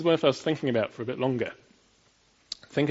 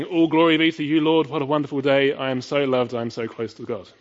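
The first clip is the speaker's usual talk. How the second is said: mock rapturous prayer; 3 semitones higher, 8 dB louder than usual. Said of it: "arms raised saying".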